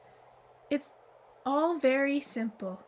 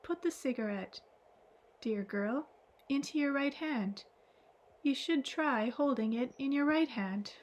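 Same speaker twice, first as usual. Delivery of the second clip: soft and tender. Acted. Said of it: "said in soft and tender tone".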